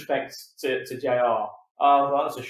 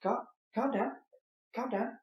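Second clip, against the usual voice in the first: much softer, soothing a shouting friend; hushed calming; 6 semitones higher, 9 dB quieter than usual. Pretend. Friend hushing J R to calm down. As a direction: settle him down gently. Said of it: "All right, Jerry".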